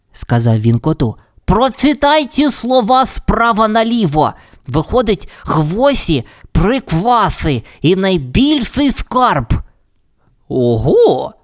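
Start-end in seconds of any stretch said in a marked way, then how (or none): 1.4-9.5 high, light bird voice, slowing at the end; a clever little bird explaining; canary voice. Acted. Tweety reveals the reversed words to the cat, high and light. 10.5-11.3 surprised squeal. Acted. The cat squeals in surprise at the treasure news. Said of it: "вирискнув кіт".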